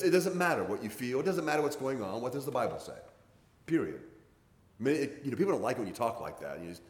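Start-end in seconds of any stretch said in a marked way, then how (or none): 0.0-4.0 emphatic, no-nonsense preaching; football-coach bluntness. Real, not acted. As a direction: lay it down like a coach, slightly raised pitch. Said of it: "You sound like a football coach".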